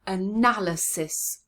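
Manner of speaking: brisker, clear model of "Analysis". Shown as a demonstration. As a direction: say "Analysis" as one connected word, a-NAL-ysis.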